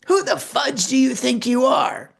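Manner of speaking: mock rage at a meddling stranger; angry confrontation. Angry mother snapping at the speaker in line.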